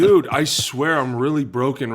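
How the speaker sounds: loud, slow, whiny hammed-up plea; mock pleading player. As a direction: ham up a hurt player begging the trainer. Player begging trainer, acted quote.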